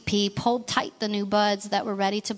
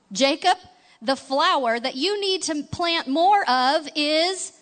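Leroy rattling on; 8 semitones higher, 4 dB louder than usual. Acted.

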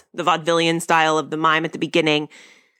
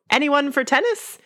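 Ricky as British Reggie; 9 semitones higher than usual. Retold or imitated. Podcaster quoting Ricky's entrance as British Reggie, high mock yell. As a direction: imitate a dandy's call, pitched well up. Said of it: "and he yells".

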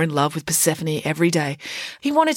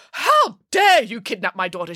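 outraged mother's bellow, slightly raised; 3 semitones higher than usual. Acted. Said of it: "she bellowed".

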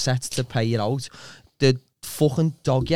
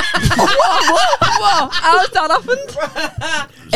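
high, louder disbelieving laugh; laughing shock; 5 dB louder, much slower than usual. Real, not acted. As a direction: shriek in amused disbelief. Shocked reaction to waterboarded.

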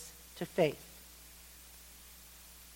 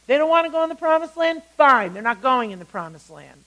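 God laying down judgment; 3 semitones higher, 6 dB louder than usual. Acted. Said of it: "God talks to Moses, and he says".

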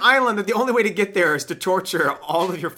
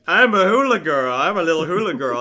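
dopey dad. Retold or imitated. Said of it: "The drugs have kicked in".

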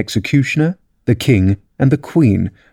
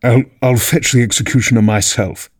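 stammering eager king; eagerly. A narrator's reading. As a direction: rush in to please. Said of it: "said the King eagerly".

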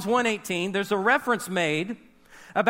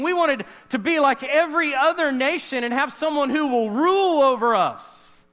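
much higher, louder startled objection; alarmed protest; 5 semitones higher, 4 dB louder than usual. Retold or imitated. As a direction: stop him in alarmed disbelief. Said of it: "the disciples were like".

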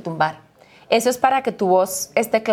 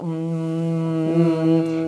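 warm-up hum; 4 semitones lower than usual. Shown as a demonstration. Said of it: "caliento la voz".

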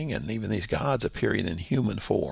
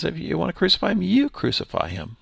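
quick, louder taunt, leaning on the second you; mocking challenge; 7 semitones higher, 4 dB louder, faster than usual. Pastor voicing Pilate daring the crowd, quick taunting challenge. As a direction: dare them to do it themselves. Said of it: "In which he's saying".

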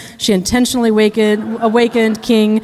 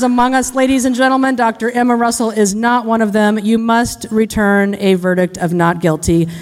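defense lawyer impression. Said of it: "impression of a criminal defense lawyer".

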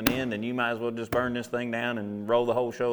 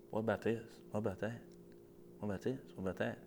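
devil's nagging; 14 dB quieter, faster than usual. Retold or imitated. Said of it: "the devil started".

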